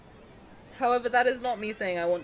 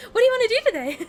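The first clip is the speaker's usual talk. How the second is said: high, loud, laughing sweet-talk voice; sweet gentle prince; 14 semitones higher, 12 dB louder, much faster than usual. Retold or imitated. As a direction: coo it like a doting prince. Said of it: "he's like".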